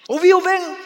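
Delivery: sharp high loud question; scolding mother's loud check; stern demand. Acted. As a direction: snap the warning at the boy. Mother warns son sternly.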